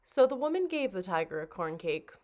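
plain reading voice

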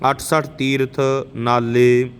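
slow, measured devotional chant; chanting scripture as a teacher; scripture recitation. Acted. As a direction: intone each line with reverence. Recites Gurbani between explanations.

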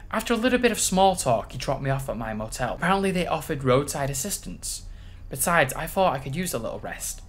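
soft, measured read-aloud; story narration. A narrator's reading. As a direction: read the tale out softly. Reads the game's story aloud.

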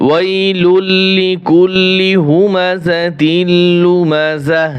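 slow, melodic tajweed chant; measured Quranic recitation. Shown as a demonstration. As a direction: chant each phrase slowly with long vowels. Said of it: "আমরা ওয়াকফা করছি".

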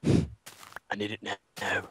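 low, soft, slow mockery; flat mocking repeat. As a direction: echo it back slow and deadpan.

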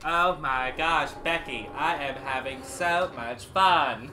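slow, dragged-out sarcasm; sarcastic. Real, not acted. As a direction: overdo the enthusiasm, slowly. Echoing friend ironically.

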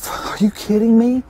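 high, loud rising disbelief; incredulous. Real, not acted. Hunter stunned by the hog's size, incredulous. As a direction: blurt it out in real astonishment, pitch way up.

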